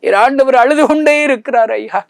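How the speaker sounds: high, loud, breaking cry of grief; tearful preaching cry. Acted. Preacher tells the villagers his Lord is still weeping, in a loud tearful cry. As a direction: wail it out as if weeping yourself.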